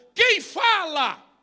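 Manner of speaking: proud, defiant shout, very high-pitched. Preacher telling the church the story, acting out Paul's cry, retelling a loud cry. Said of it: "Aí o Paulo bradou".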